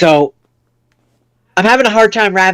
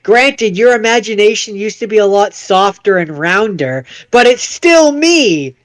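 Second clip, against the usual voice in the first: goofy dinosaur voice, pitched up; higher cartoon voice, stretching out the last words; Barney; 5 semitones higher than usual. Changed dinosaur reassures the hero it's him, goofy Barney voice. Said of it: "he's like".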